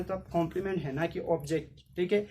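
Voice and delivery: ordinary talk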